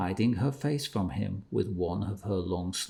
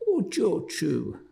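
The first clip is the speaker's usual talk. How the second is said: pleading; 11 semitones higher than usual. A narrator's reading. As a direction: plead with her over and over.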